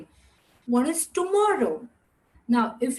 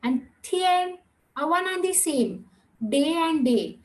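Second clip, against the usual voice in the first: imitated student question; 2 semitones higher than usual. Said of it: "y'all must be having a doubt".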